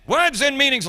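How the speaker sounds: put-on a crisp teacherly English accent confirmation; matter-of-fact English accent; English accent, brisk. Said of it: "the English accent".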